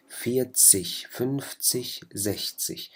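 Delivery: فيتسيش, فنفتسيش, زحتسيش said softly ending in sh; standard German -zig. Shown as a demonstration. Teacher models standard German sh ending, softly. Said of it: "بتلفظوها كحرف شين".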